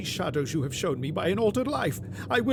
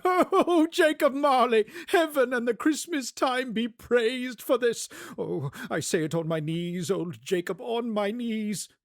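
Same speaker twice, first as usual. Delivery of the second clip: high, laughing, breathless joy; giddy Scrooge; 7 semitones higher than usual. Acted. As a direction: bubble over like a delighted child.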